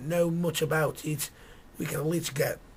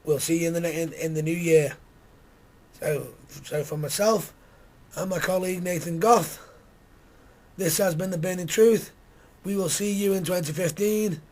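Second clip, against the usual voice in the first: hoarse, worn-out voice; groggy voice. Real, not acted. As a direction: speak with a rough, tired throat. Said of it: "with me groggy voice".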